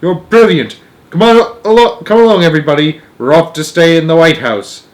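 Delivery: loud eager excitement; delighted. A narrator's reading. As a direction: sweep everyone along gleefully. Wonka delighted, rushing everyone.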